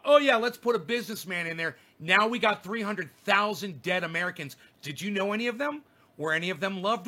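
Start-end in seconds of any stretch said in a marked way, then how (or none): 0.0-1.8 mocking quote. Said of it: "you fucking dumb cunts out there thought".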